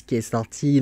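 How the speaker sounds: English accent on "The Empress", slightly slow. Real, not acted. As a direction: say "The Empress" the English way, a touch hammed-up. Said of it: "désolé pour mon accent anglais". (accent anglais sur "The Empress")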